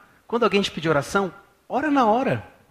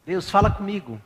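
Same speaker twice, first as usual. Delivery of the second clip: earnest prayer; 3 semitones higher, 4 dB louder than usual. Shown as a demonstration. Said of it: "fala assim".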